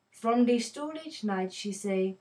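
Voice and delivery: reading the poem in a put-on Indian accent; lightly voiced Indian accent, storytelling the shopkeeper's day. Teacher reading the poem to her viewers in an Indian accent. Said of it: "I'm going to have to don an Indian accent".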